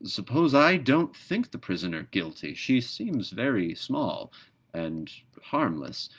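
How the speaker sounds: slow, hesitant objection; a gentle pelican unsure of the prisoner's guilt. Acted. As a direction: pause over the doubt, slowly. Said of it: "hesitating a little".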